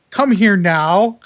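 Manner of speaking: slow, deliberate command, retold; retold urgent summons. Engineer retells summoning his assistant over a raccoon, slow and insistent. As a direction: spell out the order slowly, as a comic retelling.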